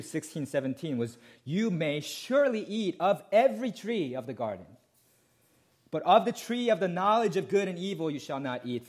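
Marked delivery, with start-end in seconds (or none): 1.4-8.9 quoting God, higher and a bit louder; God's words. Retold or imitated. Preacher quoting God to the congregation, lightly raised. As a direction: proclaim God's generous permission. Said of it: "what God actually said".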